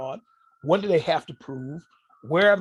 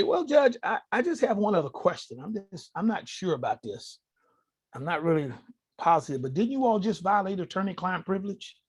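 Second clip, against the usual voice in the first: higher, feigned uncertain naivety; innocent trap question; 3 semitones higher than usual. Retold or imitated. To the judge, feigned naive higher questioning. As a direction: play dumb, then spring the trap. Playing dumb, springing the trap.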